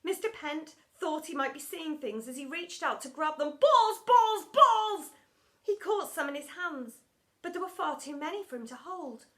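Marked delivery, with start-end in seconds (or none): 3.6-5.1 loud, high, greedy repetition; frenzied cries. A narrator's reading. Teacher reaching to grab the balls, frenzied cries. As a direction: cry it out with each grab.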